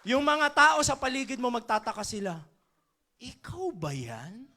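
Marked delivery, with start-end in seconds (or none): 3.2-4.5 amazed. Retold or imitated. People amazed at your change.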